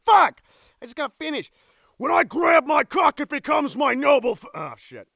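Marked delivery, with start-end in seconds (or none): 2.0-4.5 projected voice-acting delivery; declaimed line. Actor retaking the heroic line, declaimed. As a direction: proclaim it boldly. Another recorded take.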